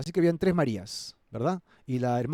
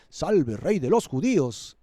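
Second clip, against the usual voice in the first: slow, mildly mocking royal greeting; a touch of scorn, drawn out; 2 semitones higher, 4 dB louder, slower than usual. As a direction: soldiers mildly mocking the king. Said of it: "de manera burlona".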